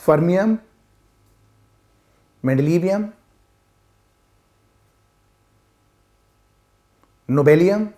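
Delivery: one name at a time, long pauses; each name drawn out with a rising end; slow, halting recall. Real, not acted. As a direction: dredge each name from memory. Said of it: "slowly बोलूँगा".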